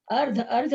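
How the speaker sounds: अर्ध said carefully with a clear ध, not घ; clear अर्ध pronunciation. Shown as a demonstration. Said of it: "इसको अर्घ नहीं पढ़ेंगे". (अर्ध को साफ़ ध के साथ बोलें, अर्घ नहीं)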